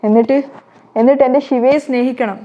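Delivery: a mother forcing herself to push her daughter away; ഉറക്കെ, വേദനയോടെ; hurt insistence. Acted.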